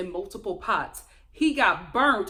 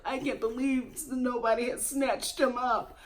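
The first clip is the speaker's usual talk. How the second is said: mock tearful. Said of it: "through the tears in her confessional".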